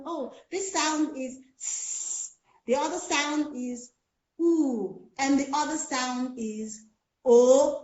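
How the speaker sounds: sounds said the wrong way, slowly; wrong teacher sounds. Shown as a demonstration. Teacher to class, demonstrating wrong sounds. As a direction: model the sloppy teacher's sounds. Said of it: "Have I articulated the sound correctly?".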